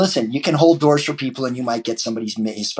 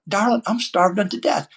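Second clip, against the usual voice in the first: higher, mock-dramatic starving customer; hammed-up hungry diner; 9 semitones higher than usual. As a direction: ham up being famished. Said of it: "And I'm like".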